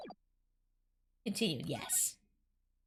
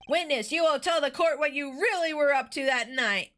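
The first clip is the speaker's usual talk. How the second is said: put-on Valley Girl voice; 3 dB louder than usual. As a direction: sound like a bored Valley Girl. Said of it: "I'm going with Valley Girl voice".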